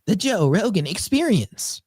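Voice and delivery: slow, high robotic narrator; TikTok text-to-speech voice. Retold or imitated. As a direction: slowly announce like a TikTok voice. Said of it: "the female one where it's like".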